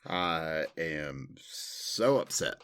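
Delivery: slow, drawn-out Southern drawl; unhurried Southern US twang; Southern accent. Acted. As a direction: play mock offense in slow Southern. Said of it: "went southern for that".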